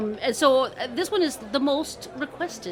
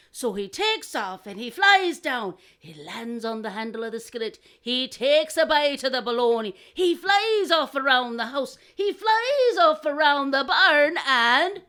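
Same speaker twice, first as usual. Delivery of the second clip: storyteller narration; 3 semitones higher, slower than usual. A narrator's reading. Telling the second crow's flight, building narration. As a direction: build suspense through each step, stretching the end.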